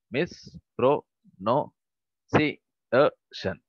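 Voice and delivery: drawn out syllable by syllable, very slowly; teacher spelling out Heterogeneous slowly for the class; slow syllabified. Shown as a demonstration. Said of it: "we are going to syllabify the following words".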